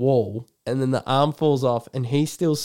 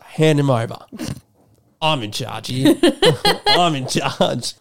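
laughing bossy quote. Retold or imitated. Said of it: "He's like".

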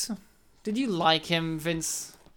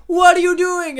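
annoyed king; 8 semitones higher, 7 dB louder than usual. Retold or imitated. King snaps at Bill.

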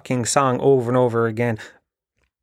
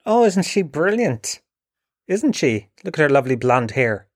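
mock gushing praise; 2 semitones higher than usual. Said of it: "you'd be going".

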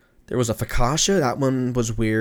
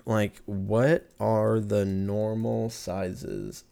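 slow search typing; much slower than usual. Real, not acted. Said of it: "I put".

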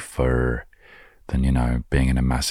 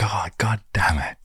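softer unvoiced whisper of annoyance; whispered curse; 6 semitones higher, 4 dB quieter than usual. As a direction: mutter the god's curse under your breath.

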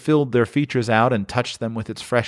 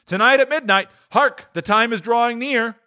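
high, urgent spirit warning; ghost voice; 13 semitones higher than usual. Acted. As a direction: warn of midnight, raised. Ghost warns.

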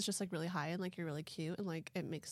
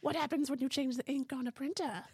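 troll riddle voice; 5 semitones higher, 7 dB louder than usual. Retold or imitated. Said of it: "your troll voice".

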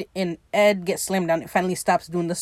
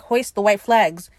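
slow, louder mock command; lightly acted call across the water; retold called order; 5 dB louder than usual. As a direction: call it out to the crew, drawn out. Swimmer calls order to crew.

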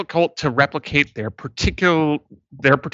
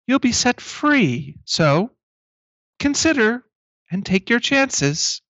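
robot announcer; 4 semitones higher than usual. Acted. GM voicing robot announcer Spago.

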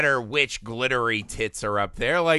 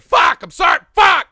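loud, high apologetic yelling; hammed-up panicked cursing; mock outburst; 13 dB louder than usual. Acting Nomi's outburst.

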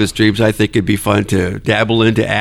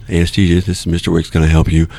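answering the phone, lightly professional; a hint of phone-answering voice; on-call telephone voice; 4 semitones lower, faster than usual. Shown as a demonstration. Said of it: "this is my on-call telephone voice".

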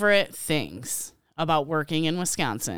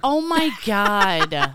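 slow, stretched groan of dismay; long-drawn playful dismay; drawn-out exasperation; much slower than usual. Real, not acted. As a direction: drag out every word in exasperation. Mock exasperation at co-host's stutter editing.

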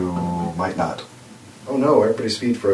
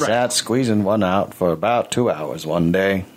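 Morgan Freeman impression. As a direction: tell it like a mellow documentary narrator. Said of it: "It's not a great Morgan Freeman".

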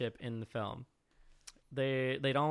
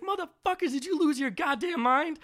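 high, mock outraged yell; Blade impression; 14 semitones higher, 5 dB louder than usual. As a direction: shout it like an exasperated hero. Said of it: "He's like".

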